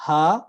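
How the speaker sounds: ہا breathed from the lowest throat; throat sound demo. Shown as a demonstration. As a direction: push the ہا up from deep down. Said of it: "یہ بالکل نیچے سے".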